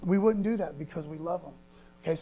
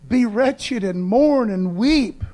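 slow scripture reading; 4 semitones higher, 6 dB louder, much slower than usual. Shown as a demonstration. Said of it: "reads scripture slowly".

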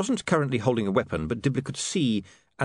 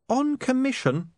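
high, sharp interjection; high-pitched snap, drawn out; snapped. A narrator's reading. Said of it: "snapped Saccharissa".

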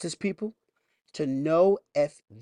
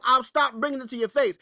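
raised, emphatic preacher line; louder preaching take; 9 semitones higher, 4 dB louder than usual. Acted. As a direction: press the warning hard. Preacher repeats the warning.

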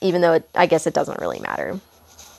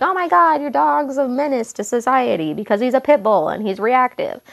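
mock outraged stranger; 5 semitones higher than usual. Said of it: "I don't want people to be like".

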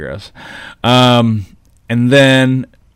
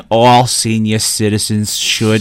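slow commercial read; 2 semitones lower, slower than usual. Shown as a demonstration. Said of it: "What's that last word?".

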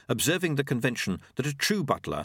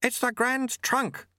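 slow, high-pitched shouted reply; shouting back; 14 semitones higher, slower than usual. A narrator's reading. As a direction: call back high, stretching the words over the wind. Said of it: "the sweeper shouted back".

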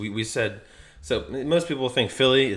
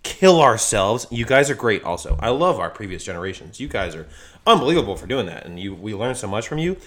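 lightly put-on country ranting voice; country accent; 3 semitones higher than usual. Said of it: "best country accent I've ever heard".

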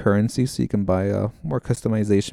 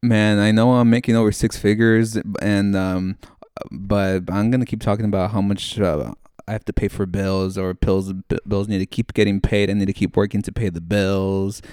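Retold or imitated. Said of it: "Okay, I'll do another one".

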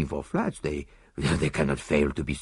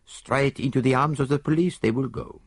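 mild reproof; 4 semitones higher than usual. Acted. Poirot lecturing the disarmed Italian, mild reproof. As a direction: chide him like a naughty child. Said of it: "a tone of mild reproof".

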